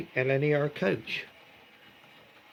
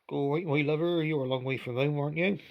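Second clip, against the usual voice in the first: put-on engine speaking in a light West Country accent; a light West Country lilt, gently teasing; 2 semitones higher than usual. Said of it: "in a West Country accent".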